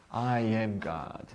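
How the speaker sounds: holy, powerful, thundering, grand voice. Teacher imagining God speaking to someone in the class: thunderous holy voice of God. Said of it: "thunderous, powerful, holy voice".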